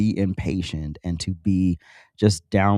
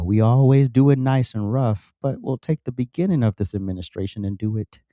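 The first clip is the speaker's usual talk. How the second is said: imitating a singer; 3 semitones higher than usual. Retold or imitated. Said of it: "like Tina Turner said".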